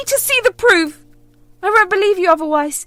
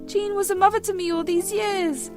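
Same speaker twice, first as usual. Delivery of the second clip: loud, higher, insistent; angry denial; 7 semitones higher, 5 dB louder than usual. Acted. Daughter shouts that her mother is lying, angry. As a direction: refuse to believe her.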